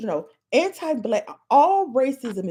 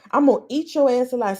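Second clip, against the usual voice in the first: getting upset; faster than usual. Real, not acted. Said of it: "See, now I'm getting upset".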